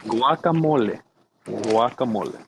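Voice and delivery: teacher's demonstration of "Guacamole", falling at the end; Spanish pronunciation. Shown as a demonstration. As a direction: say "Guacamole" as gwah-kah-MOH-leh. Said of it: "Can you say this one word with me?".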